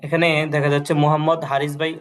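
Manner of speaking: usual speaking voice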